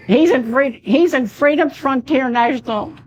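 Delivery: talking through a failing, hoarse voice. Real, not acted. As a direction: voice going hoarse, strained. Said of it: "I'm losing my voice".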